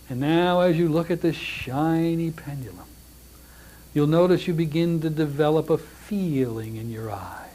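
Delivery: soothing stage-hypnosis delivery; hypnotic induction. Shown as a demonstration. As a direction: guide the listener gently toward trance. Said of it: "you would talk like that".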